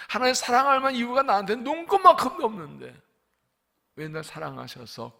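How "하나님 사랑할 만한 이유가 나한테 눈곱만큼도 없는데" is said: much higher and louder, pleading; a fervent exclamation rising high; impassioned outcry. Real, not acted. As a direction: cry it out in disbelief at being loved. Preacher cries out his unworthiness.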